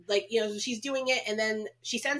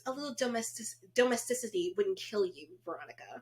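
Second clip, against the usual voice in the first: lightly voiced prim scolding, softer; Sarah; 2 semitones higher, 4 dB quieter than usual. Camp leader chiding Veronica about domesticity, mock prim. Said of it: "And she goes".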